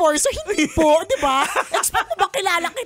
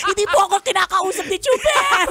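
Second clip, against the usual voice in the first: whiny tattle; 5 semitones higher, 5 dB louder than usual. Retold or imitated. Tattling to the boss.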